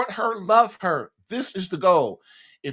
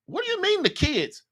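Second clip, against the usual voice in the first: high, puzzled mock question; 11 semitones higher than usual. Listeners echoing him in disbelief, high and puzzled. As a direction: imitate people asking in disbelief. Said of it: "People gonna be like".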